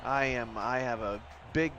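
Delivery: low, lightly put-on Canadian apology; over-polite Canadian sorry voice; Canadian accent. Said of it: "you just broke out your Canadian accent".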